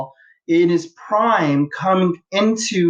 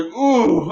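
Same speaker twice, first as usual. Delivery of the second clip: imitated ooh reaction; 5 semitones higher than usual. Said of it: "he's like".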